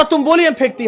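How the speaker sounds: high mock South Indian Hindi. Narrator voices the offended South Indian supervisor, mocking. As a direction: imitate his accent with a smirk. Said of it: "उसका tone का मजाक उड़ा रहा है".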